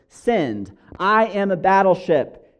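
lightly acted angry captain; a bit furious. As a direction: raise pitch and force on the captain's ultimatum. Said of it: "the captain is a bit furious".

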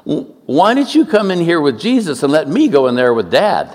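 high, eager mock child; kid's punchline. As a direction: pitch the idea like a clever kid. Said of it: "And the kid says".

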